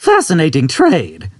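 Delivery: put-on high, slow wistful old man. Old man to Arthur, high, slow and wistful. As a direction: dwell fondly on the trade.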